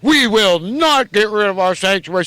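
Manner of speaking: quoting the governor in a smug, self-righteous tone; mildly mocking pious politician. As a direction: parody his preachy pronouncement. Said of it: "he's so self-righteous".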